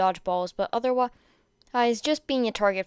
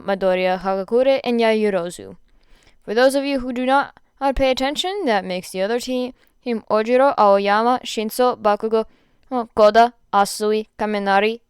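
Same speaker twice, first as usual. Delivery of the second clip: teacher calling out names; 6 dB louder than usual. Acted. Teacher calls out team lists.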